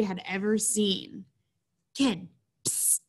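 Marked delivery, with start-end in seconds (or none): 1.9-3.0 gruff voice. Acted. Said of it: "a gruff voice said".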